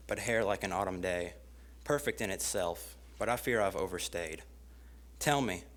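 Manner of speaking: measured love-poem recital with pauses between lines; spoken-word reading of a rhymed poem; poetry reading. Acted. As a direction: recite it line by line, each falling at the end. Reads own poem aloud.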